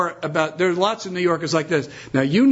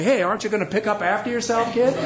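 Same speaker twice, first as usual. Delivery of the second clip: smart aleck; 4 semitones higher, faster than usual. Retold or imitated. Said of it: "a New Yorker would have said some smart aleck thing".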